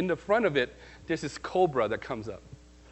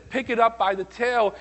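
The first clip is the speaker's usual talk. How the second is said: loud command; 8 semitones higher, 8 dB louder than usual. Retold or imitated. God's command, told with rising fervour.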